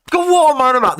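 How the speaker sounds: high, loud cry at himself; exasperated outburst. Real, not acted. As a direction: burst out in exasperation at your own muddle. Exasperated at his own garbled words.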